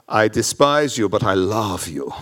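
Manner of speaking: low put-on accent for God; odd-accented voice of God, played for laughs; God's put-on accent. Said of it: "why God speaks in that accent".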